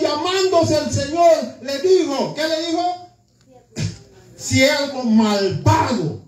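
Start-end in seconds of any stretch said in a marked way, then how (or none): 4.4-6.2 angry rebuke. Acted. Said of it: "se lo dijo así, con coraje".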